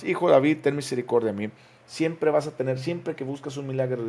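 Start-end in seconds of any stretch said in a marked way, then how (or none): 0.0-1.5 louder, pleading cry for mercy; crying out harder. Acted. Bartimeo cries out over those rebuking him, louder. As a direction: beg even harder over the crowd. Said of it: "pero él clamaba mucho más".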